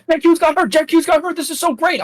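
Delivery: high, gloating glee over the injury; gleeful fan. Retold or imitated. Charles cheering a rival's injury, high gleeful gloat. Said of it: "He's like".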